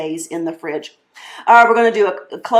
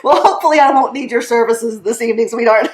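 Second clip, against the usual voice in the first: laughing; 2 semitones higher, faster than usual. Real, not acted. Joking reply to Deb.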